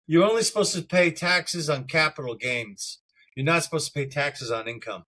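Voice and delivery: tinny, metallic glitchy audio; metallic voice filter. Real, not acted. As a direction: voice coming through a metallic-sounding connection. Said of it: "I just heard a metallic sound when you were talking".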